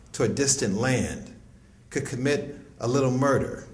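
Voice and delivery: measured, deliberate poem recital; poetry reading. Acted. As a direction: read it like a spoken word poem. Reads a poem aloud.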